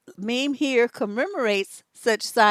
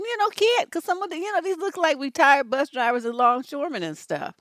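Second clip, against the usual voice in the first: usual speaking voice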